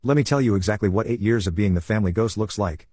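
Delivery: usual speaking voice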